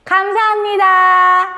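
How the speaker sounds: high, slow call of thanks; chanted thanks, swelling at the end; calling out to God. Shown as a demonstration. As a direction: lead children in a drawn-out shout. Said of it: "자, 우리 그러면 하나님께 외쳐볼까요?".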